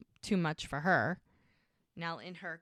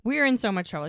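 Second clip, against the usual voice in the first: raised, louder mock warning; acted alarm at getting caught; worried warning; 3 semitones higher, 6 dB louder than usual. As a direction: voice a girl warning her friend.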